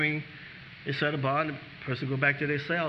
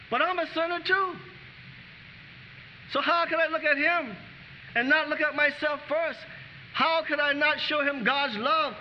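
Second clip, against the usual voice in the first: high, rousing pulpit call; full-force preaching; 8 semitones higher than usual. Acted. Pastor urging the congregation about God's love, fervent high preaching. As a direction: lift the congregation, ringing higher.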